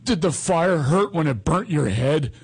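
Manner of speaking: put-on slow, innocent kid's question; lightly voiced son. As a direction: imitate a guileless little boy. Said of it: "and he goes".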